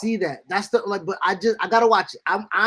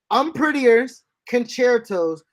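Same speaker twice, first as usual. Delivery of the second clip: put-on Jungle Boy; 4 semitones higher, 5 dB louder than usual. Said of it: "If I'm Jungle Boy".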